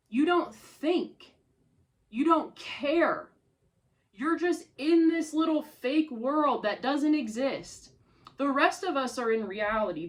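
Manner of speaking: furious, rising to a loud outburst; enraged accusations climbing in volume; real anger. Real, not acted. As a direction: let the anger boil over at her. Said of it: "I'm so mad".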